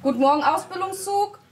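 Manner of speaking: loud parade-ground greeting; barked drill commands. Real, not acted. Officer greets platoon.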